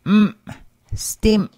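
"mm, stim." with the m cut off sharply; "stim." ending its m with a glottal catch; abruptly ended M. Shown as a demonstration. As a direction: stop the "mm" dead in the throat. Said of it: "pronounced as an abruptly ended M".

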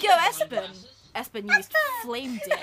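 high, mock battle announcement; hammed-up monster-battle shout, near laughing; Pokemon battle call. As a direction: call out an attack like a game battle. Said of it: "is it like a Pokemon?".

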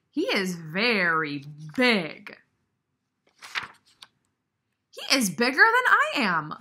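a lightly voiced elephant, loud and slowly stretching "bigger" and "smaller"; an embarrassed friend making excuses; sheepish Gerald. Gerald explains how big whale is.

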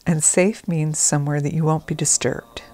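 calm, measured trance-induction delivery; guided meditation. Acted. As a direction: gently settle the listener in, with unhurried pauses. Begins leading a guided meditation.

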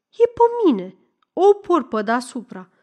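put-on girl's high-pitched answer; high protesting reply. Girl answering about the jacket, high protest.

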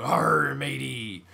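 a loud pirate growl on arr; pirate greeting. Retold or imitated. Waving to a kid in a truck, loud mock pirate call. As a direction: bellow it like a hammy pirate. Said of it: "miss the opportunity to go".

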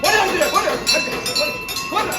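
loud, high-pitched calling out; urgent ritual command. Real, not acted. Officiant ordering rice to be thrown, urgent loud command. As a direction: call the order out over the ceremony.

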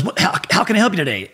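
lightly put-on Bronx accent; New York accent. Marine sergeant greeting a walk-in, New York accent. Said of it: "thick ass New York accent".

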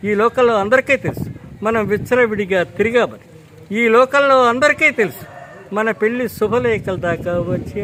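a heated screen tirade that climbs in pitch and volume; Akkineni Nageswara Rao impression. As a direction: mimic a film hero's furious dialogue to the heroine. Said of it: "suppose Akkineni నాగేశ్వరరావు గారు ఉన్నారు".

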